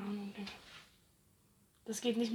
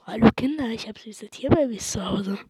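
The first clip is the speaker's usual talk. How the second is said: lightly voiced luring stranger, sinking to a whisper; a hint of a creep luring kids; creepy stranger; 4 semitones lower, 3 dB louder than usual. Mock predator luring the children, dropping to a whisper.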